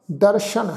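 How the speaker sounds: ਦਰਸ਼ਨ with a clear sh; dotted sh sound. Shown as a demonstration. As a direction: say ਦਰਸ਼ਨ with sh, not s. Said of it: "ਸੱਸੇ ਦੇ ਪੈਰ 'ਚ ਬਿੰਦੀ ਲਗਾ ਕੇ".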